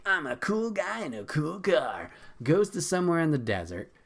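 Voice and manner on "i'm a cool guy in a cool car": a lightly put-on too-cool voice; mock cool guy. Mocking Morbius driving as a smug cool guy. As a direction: play him smug behind the wheel.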